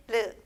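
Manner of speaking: "R" as a sound halfway between R and L; tongue between an R and an L for "R". Shown as a demonstration. Teacher shows the Korean consonant, "R" between R and L. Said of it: "va a sonar como una entre R y L".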